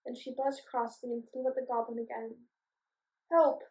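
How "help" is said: cry for help. Acted. Goblin attacked by bees.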